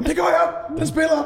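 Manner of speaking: high, frantic insisting; panicked protest. Retold or imitated. Sound tech panicking back at the angry boss. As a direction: squeal it in a panic.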